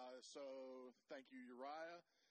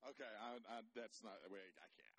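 choked up; 3 semitones lower than usual. Real, not acted. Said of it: "I'll probably get emotional".

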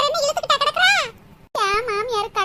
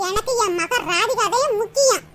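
drawn out, teasing, with a laugh; slow taunting repeat; 3 semitones lower than usual. Acted. Mother taunting daughter-in-law, slow and teasing. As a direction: rub it in slowly with a chuckle. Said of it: "repeated line".

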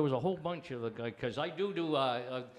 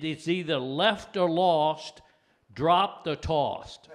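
slow rhythmic list; 5 dB louder, much slower than usual. Shown as a demonstration. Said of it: "rhyming punch list".

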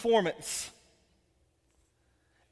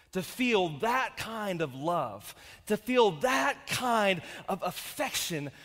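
lower, soft and slow; tender; 4 semitones lower, 4 dB quieter, slower than usual. Real, not acted. Father telling the church about his daughter, tender. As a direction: linger tenderly on the love.

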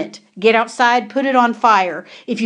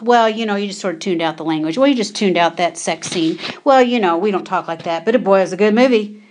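mock excuse-making; 2 semitones lower, faster than usual. Preacher imitating listeners excusing filthy movies, mock excuse-making. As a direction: rattle off someone else's lame justification.

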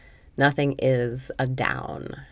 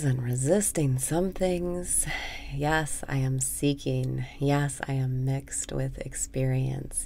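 guided meditation. Acted. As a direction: guide the listener gently into letting go. Leads a meditation.

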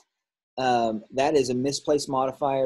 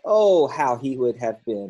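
louder, drawn-out exclaimed line; read as an exclamation; 5 dB louder than usual. Shown as a demonstration. Teacher reading a sentence aloud to class, exclaiming. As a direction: let the "Oh" ring out as an exclamation. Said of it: "That's an exclamation point".

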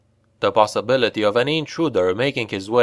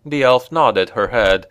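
ordinary delivery, nothing marked

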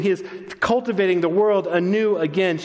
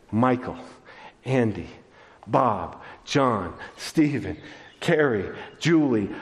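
gentle name-calling; 5 semitones lower, slower than usual. Acted. Preacher voicing the Shepherd calling each listener by name, gentle. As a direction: call each person gently, one at a time.

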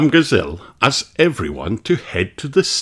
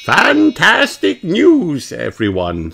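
much higher, louder teacher call; Madame Gazelle's voice; 9 semitones higher, 3 dB louder, slower than usual. Acted. Madame Gazelle addressing the children, high and loud. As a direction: call the class to order. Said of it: "says Madame Gazelle".

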